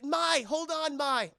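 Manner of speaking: high, loud mock-anguished plea; hammed-up tearful-hero urgency; desperate calling. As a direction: call out to the dying friend. Calling to dying friend.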